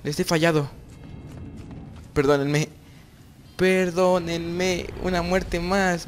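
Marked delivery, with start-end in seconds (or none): 3.6-6.1 1 mock sad. Real, not acted. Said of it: "Lo siento, chicos".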